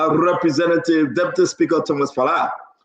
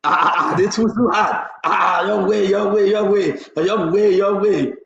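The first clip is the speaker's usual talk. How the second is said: mocking imitation. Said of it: "What he come to say?".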